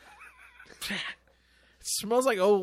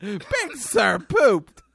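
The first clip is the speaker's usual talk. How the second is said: mock baby talk; 4 dB louder, much slower than usual. Baby talk about dog.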